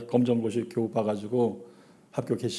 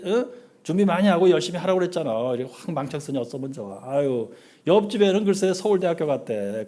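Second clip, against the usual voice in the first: nagging parent; 3 semitones higher than usual. Acted. Preacher voices a nagging parent.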